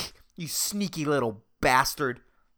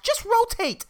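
high angry yell at the planet; mock rage. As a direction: bark the order at the earth once more. Yelling at the earth again.

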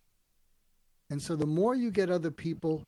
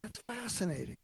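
fascinated; 5 semitones higher, 8 dB quieter than usual. Shown as a demonstration. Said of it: "Really meaning".

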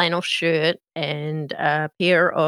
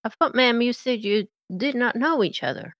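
confused Mater; 4 semitones higher than usual. Acted. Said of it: "he looks a bit confused and says".

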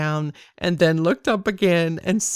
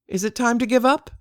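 quick questioning rise on up; rhetorical question; 5 semitones higher, faster than usual. Acted. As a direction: toss the question out lightly and quickly.

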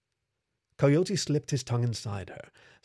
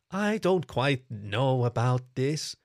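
unsure, dragging each word out slowly; hesitant kitsune; slower than usual. Acted. Kitsune hesitating with the coyote god, slow and unsure.

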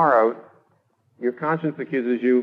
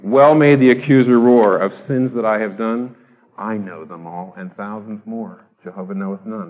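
reciting a hymn; 2 semitones lower, 5 dB louder than usual. Acted. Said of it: "the old, uh, hymn goes".

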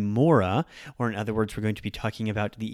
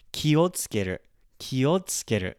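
"Kiotsukeru" starting low on the first syllable, then rising; low-high pitch accent; 2 semitones higher than usual. Shown as a demonstration. Teacher demonstrates pitch accent, "Kiotsukeru" starting low. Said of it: "Ki is lower".

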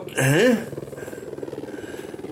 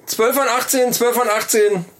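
store announcement. Acted. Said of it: "rede wie eine Kaufhausdurchsage".

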